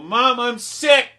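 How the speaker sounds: high, loud, stretched-out whine; whiny pleading. Retold or imitated. Child trying to skip school pleads with Mom, whiny. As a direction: plead sickness like a whining child.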